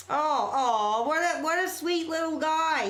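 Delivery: high cooing pet voice. Real, not acted. Streamer coos at a viewer's pet picture, high and sweet.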